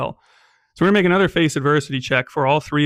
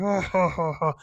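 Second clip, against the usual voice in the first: mock monster laugh; 3 semitones higher, 3 dB quieter than usual. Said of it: "he laughs and he yells".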